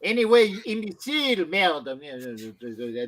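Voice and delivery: mock French accent. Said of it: "My accent comes in and out".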